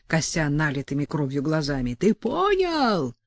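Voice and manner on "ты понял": choked threat. A narrator's reading. Petka threatens Chernov.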